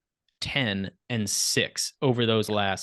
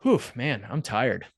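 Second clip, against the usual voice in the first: imitating an understated, mock-weary sigh; almost sarcastic; slower than usual. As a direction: feign tiredness with a touch of sarcasm. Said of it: "in almost a sarcastic way, going".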